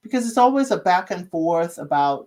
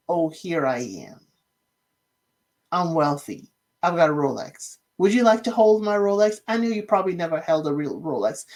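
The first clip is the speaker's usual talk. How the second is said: mock-pompous bragging in a lightly lowered voice; 2 semitones lower than usual. Mocking Leo bragging about his Rolex, lightly pompous. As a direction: lightly imitate a smug rich show-off. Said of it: "he's starting to sound a little pompous".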